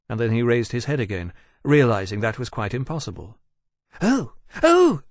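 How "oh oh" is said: high, sudden alarmed cry. A narrator's reading. Temeraire spotting Iskirka under pursuit, crying out. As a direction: call out sharply, voice leaping up. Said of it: "he cried".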